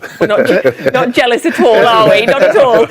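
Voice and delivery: mock jealousy. Jokingly denies being jealous.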